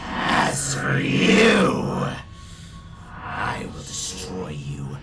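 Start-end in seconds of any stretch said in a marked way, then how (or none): 0.1-2.1 very slow, loud and high; drawn-out villain shout. Acted. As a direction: stretch every word, gloating. Villain repeats threat, drawn out.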